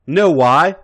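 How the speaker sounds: put-on loud, high drunken brag; drunken boast. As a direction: brag it out, tipsy.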